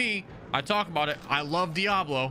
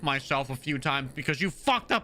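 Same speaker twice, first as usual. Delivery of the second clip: angry rant; 6 semitones higher than usual. Real, not acted. Streamer scolding the enemy player for messing up his day, angry rant. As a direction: scold the player for ruining your plans.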